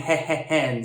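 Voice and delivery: He, he, hen with an h at the start of each syllable. Shown as a demonstration. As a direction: attack every syllable with a breathy h. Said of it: "She's saying".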